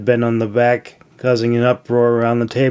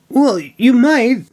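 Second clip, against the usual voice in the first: encouraging; 11 semitones higher than usual. A narrator's reading. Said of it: "Milo encouraged".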